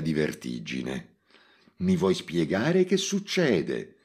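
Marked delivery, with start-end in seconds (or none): 1.8-4.0 Mimì asking. Acted. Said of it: "gli spiò Mimì".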